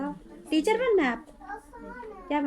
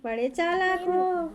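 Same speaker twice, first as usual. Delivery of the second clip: teasing; 2 semitones higher, slower than usual. Real, not acted. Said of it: "इशारों में बात कर रहा है".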